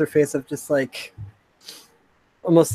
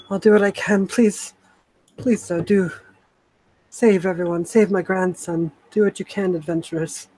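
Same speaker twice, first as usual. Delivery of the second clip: higher-pitched, halting plea; pleading grandmother; 3 semitones higher than usual. Acted. Grandmother begging adventurers to save her grandson, pleading. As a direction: beg gently, pausing between pleas.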